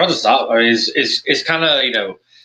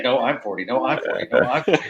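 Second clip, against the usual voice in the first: replaying it in my head; 2 semitones higher, faster than usual. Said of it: "it just kept replaying in my head".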